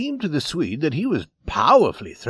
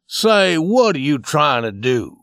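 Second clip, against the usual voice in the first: fierce cry; 3 semitones higher, 7 dB louder than usual. Acted. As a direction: confront him hard and loud. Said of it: "he cried as he threw the cards fiercely".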